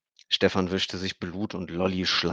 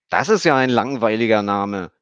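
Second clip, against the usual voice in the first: put-on girl's voice; 3 semitones higher, 10 dB louder than usual. A narrator's reading. Child Emmy's voice, higher, loud.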